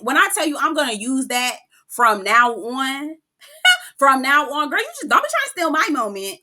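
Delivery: can't keep the laugh out of it. Real, not acted. Laughing over a quote she loves.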